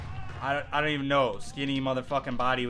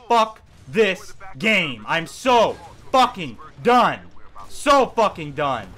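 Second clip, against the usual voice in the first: exasperated; slower than usual. Real, not acted. Exhausted raging.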